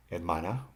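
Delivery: hermana stressed on the middle syllable MA. Shown as a demonstration. Teacher showing next-to-last stress, MA stressed in hermana. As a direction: lean on the MA in hermana. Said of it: "the stress is on the M A".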